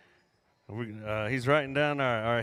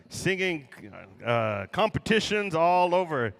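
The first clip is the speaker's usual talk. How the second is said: powwow emcee; 3 dB louder than usual. Real, not acted. Emcee introduces singers.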